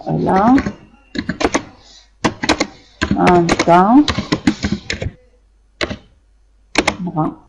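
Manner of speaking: one word at a time, long gaps. Shown as a demonstration. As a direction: spell it out for the board, word by word. Teacher dictating while writing. (dictée lente, mot par mot)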